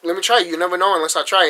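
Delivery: indignant plea. Retold or imitated.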